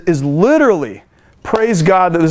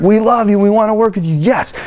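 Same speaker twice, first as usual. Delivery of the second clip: bright, eager and excited, pitch lifted; gushing customer-service enthusiasm; high energy greeting; 3 semitones higher than usual. Shown as a demonstration. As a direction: sound thrilled to hear about their problems. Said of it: "high energy, they're excited".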